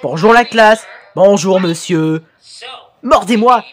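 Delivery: lightly dubbed classroom cartoon dialogue; acted subtitle reading. Streamer voicing a teacher greeting the class, lightly theatrical read. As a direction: read each part theatrically, switching between teacher and pupils.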